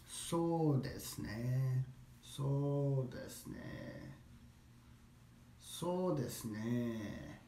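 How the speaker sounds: very slow, softly drawn-out "So desu ne"; slow, musing drawl; slow, thinking. Shown as a demonstration. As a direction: stretch out "So" and "ne" as if buying time. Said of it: "Just say it slower".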